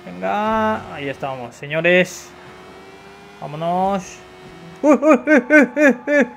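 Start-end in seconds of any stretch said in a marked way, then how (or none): 4.8-6.3 laughing excitement. Real, not acted. Streamer sees a Rolls Royce.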